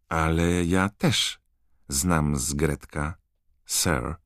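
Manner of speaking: a shy house-elf piping up; piping elf, slow and timid; squeaky elf. Acted. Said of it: "zapiszczała skrzatka".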